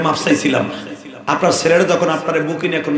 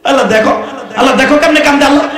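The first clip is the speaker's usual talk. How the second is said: high, loud, urgent preaching cries; impassioned waz preacher shouting; fiery preaching; 10 semitones higher, 4 dB louder, faster than usual. Acted. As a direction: rouse the crowd to tears at full force. Preacher urges crowd to weep.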